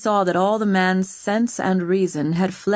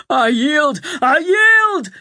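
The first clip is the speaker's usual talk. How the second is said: much higher, louder desperate cry; bellowed surrender; 9 semitones higher, 7 dB louder, slower than usual. A narrator's reading. Severn giving up to Owen, bellowing. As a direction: scream out the surrender. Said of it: "Severn bellowed".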